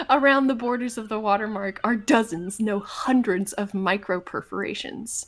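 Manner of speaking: measured, even scene-setting; game master narration. A narrator's reading. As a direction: describe fine detail as the narrator.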